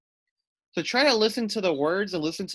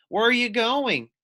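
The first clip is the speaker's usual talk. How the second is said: asking puffin; 8 semitones higher, 4 dB louder than usual. Acted. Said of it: "asked Puffin Muffin".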